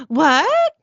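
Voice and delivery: sharp, high, loud shocked "What?". Acted. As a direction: gasp it out in shock. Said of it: "Not like that, but".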